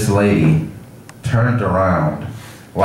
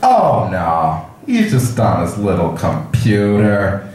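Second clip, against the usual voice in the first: old man impression; slower than usual. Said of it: "The guy is old".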